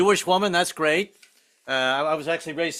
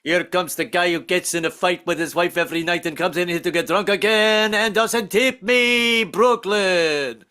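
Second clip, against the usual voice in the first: long name; 2 semitones higher than usual. Retold or imitated. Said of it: "five minutes to say my name".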